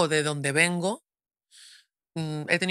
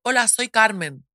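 higher, louder, slow hello; phone greeting; 5 semitones higher, 4 dB louder, slower than usual. Shown as a demonstration. Calling a hotel, a higher, louder, slow greeting. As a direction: say your name clearly so they hear a woman. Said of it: "Yo siempre cuando llamo digo".

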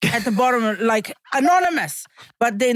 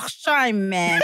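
South African accent; 5 semitones lower, slower than usual. Shown as a demonstration. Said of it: "you have to say".

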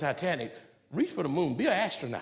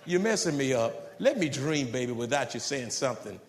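tender plea to spouse; 5 semitones lower than usual. Retold or imitated. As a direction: coax your spouse tenderly to stop the negativity. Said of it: "You gotta talk like that to her".

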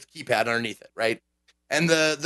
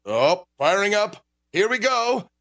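a hint of an upbeat machine voice; lightly voiced computer announcer; game announcer voice; 4 semitones higher than usual. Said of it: "And it goes".

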